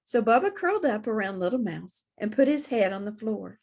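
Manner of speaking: usual speaking voice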